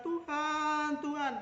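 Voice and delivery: high, loud fervent cry to God; fervent loud call; earnest cry. Shown as a demonstration. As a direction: call out with full sincerity. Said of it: "sungguh-sungguh".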